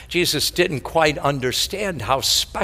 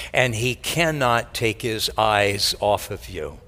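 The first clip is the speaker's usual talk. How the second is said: tender; 5 semitones lower than usual. Shown as a demonstration. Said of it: "repeated with new force".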